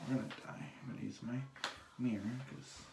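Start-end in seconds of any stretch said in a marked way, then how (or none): 0.1-0.6 mock doom. Repeats the line more quietly.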